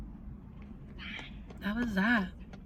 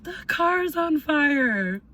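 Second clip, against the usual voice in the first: retold alarmed shout; 8 semitones higher, 4 dB louder, much slower than usual. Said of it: "I hear someone go".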